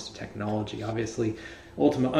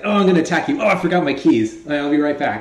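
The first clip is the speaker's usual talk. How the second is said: goofy villain voice; 5 dB louder, faster than usual. Pretend. Enemy voiced in mock scene.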